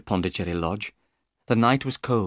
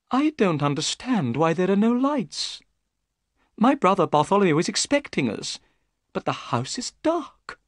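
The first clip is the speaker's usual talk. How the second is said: raised, brighter voice for Thaddeus Sholto; Sholto's eager voice; 9 semitones higher than usual. Acted. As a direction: voice the excitable little man, pitched up.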